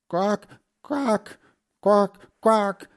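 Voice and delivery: high-pitched, squawking quacks; duck quacking. A narrator's reading. Mother duck quacks before flying off, squawking. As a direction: quack loudly before taking off. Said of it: "sagte die Ente".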